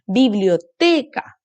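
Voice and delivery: slow, each syllable drawn out, Biblioteca. Shown as a demonstration. Teacher sounding out Biblioteca for children, slowly. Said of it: "Ambas sílabas".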